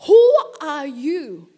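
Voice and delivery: loud, slow cry of awe. Acted. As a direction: call out the question loudly and slowly. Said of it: "He said".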